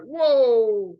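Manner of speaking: thrilled exclamation; excited whoa. Retold or imitated. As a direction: let the wonder hit you. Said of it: "That makes you excited".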